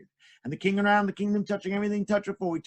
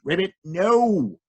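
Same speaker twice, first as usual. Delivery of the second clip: frog puppet; 5 dB louder, much slower than usual. Acted. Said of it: "frog language".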